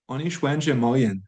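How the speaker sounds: Anish Wenjie Mo Yin said clearly, each word separate; teacher models Anish Wenjie Mo Yin; model sentence. Shown as a demonstration. Teacher reads the full sentence aloud to learners.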